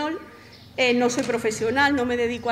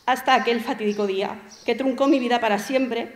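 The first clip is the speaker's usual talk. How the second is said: even, composed literary narration; story reading. Acted. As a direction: read your own story aloud to an audience. Reads own short story aloud.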